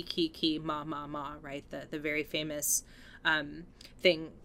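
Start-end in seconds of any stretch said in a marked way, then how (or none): 0.0-1.3 quiet echo of the horror refrain; hushed refrain imitation. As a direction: softly chant the key, key, ma, ma. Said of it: "he's doing the key".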